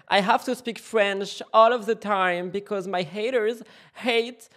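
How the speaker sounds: drawn-out pleading English apology; hammed-up contrite vow, slow and fading; mock apology.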